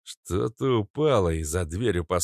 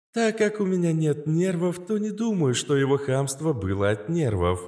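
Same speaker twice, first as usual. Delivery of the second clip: cold, much higher machine voice; coldly; 9 semitones higher than usual. Acted. AI answers about grandpa's rudeness, coldly. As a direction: say it icily, unmoved. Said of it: "холодно произнесла Астра".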